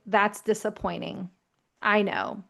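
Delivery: empathetic. Shown as a demonstration. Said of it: "you can just say something like".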